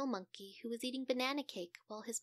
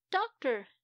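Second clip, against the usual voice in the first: urgent call; 5 semitones higher, 8 dB louder than usual. Acted. Mother calls doctor again.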